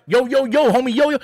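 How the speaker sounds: lightly parodied street greeting, punched out; mock slang hype. Reviewer imitating how nobody talks on the street, mock slang hype. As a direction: mimic a try-hard homie. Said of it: "No one goes on the street".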